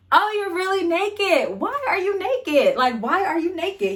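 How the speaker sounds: high, slow exaggerated disbelief; catching the boyfriend naked, mock-shocked. Pulls covers, finds him naked.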